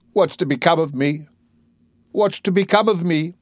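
high-pitched, anguished appeal; desperate plea. Acted. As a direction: plead in growing desperation. Eliza crushed, despairing about her future.

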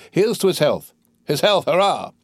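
high, hearty toast; drunken cheer. Acted. Drunkard drinking to his friend's health, merrily cheering.

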